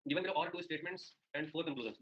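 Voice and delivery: very slow, word by word read-out. Shown as a demonstration. Teacher reading the question to students, very slow. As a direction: spell the question out slowly for the class.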